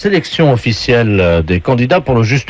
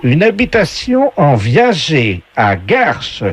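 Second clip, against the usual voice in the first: slow, higher game voice; game show announcer; 3 semitones higher, slower than usual. Acted. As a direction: announce each prize with drawn-out flourish. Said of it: "la voix du jeu".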